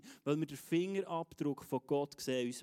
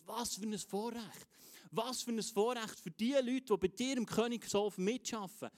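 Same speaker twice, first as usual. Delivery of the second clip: higher-pitched, marvelling praise; acted admiration; 5 semitones higher than usual. Queen of Sheba admiring Solomon's servants, marvelling. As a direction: marvel at the privilege, mildly hammed-up. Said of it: "Sie hat eine Begeisterung gesehen".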